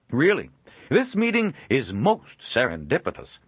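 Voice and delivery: high, loud jovial merchant; booming cheerful peddler; hearty trader voice. Acted. Joel speaks.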